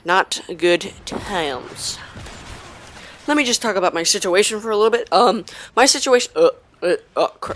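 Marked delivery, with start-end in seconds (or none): 0.1-2.0 very slow, dragging each word; drawn out slowly. Shown as a demonstration. 6.4-7.5 voice crack. Real, not acted. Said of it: "voice crack".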